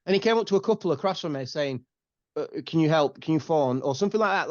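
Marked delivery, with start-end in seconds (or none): 2.4-3.8 broken English. Retold or imitated. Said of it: "like, really broken English".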